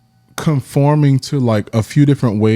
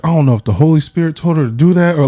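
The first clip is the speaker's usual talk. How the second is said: lightly voiced friend; 6 semitones higher, faster than usual. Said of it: "He was like".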